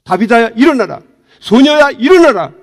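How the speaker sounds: loud, high command to rise; commanding call. Acted. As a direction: echo Jesus raising the girl. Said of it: "베드로를 통해서 주님을 보게".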